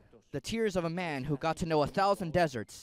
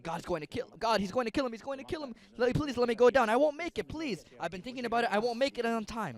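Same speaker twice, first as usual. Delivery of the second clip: afraid pleading; 5 semitones higher, faster than usual. Acted. Angel Michael pleading in fear.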